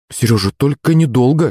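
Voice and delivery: lightly voiced mum's reminder; warning mother. A narrator's reading. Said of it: "предупредила мама Наташа".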